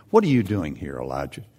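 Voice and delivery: voice of God again. Acted. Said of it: "the voice said to him".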